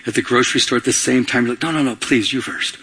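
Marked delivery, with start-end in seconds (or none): 1.6-2.8 courteous shopper waving someone ahead; polite deferring. Pretend. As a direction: gently let the other person go first. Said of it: "Like you're standing in line".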